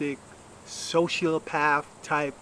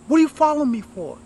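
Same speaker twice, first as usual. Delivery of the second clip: loud, high, aggressive yell; 12 semitones higher, 8 dB louder, faster than usual. Retold or imitated. Husband confronting his wife at the park, aggressive shout. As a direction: bark it at her like a hostile husband. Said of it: "real, like, aggressive".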